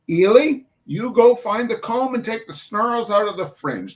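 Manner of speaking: put-on Irish-tinged New York mum calling the children to chores; New York Irish dialect. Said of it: "I do not know this dialect".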